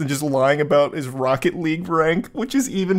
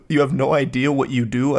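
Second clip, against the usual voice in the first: rising, baffled repeat of "You have no idea what you do"; incredulous questioning echo. Real, not acted. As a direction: echo it back, confused. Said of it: "I don't even understand what that statement's supposed to mean".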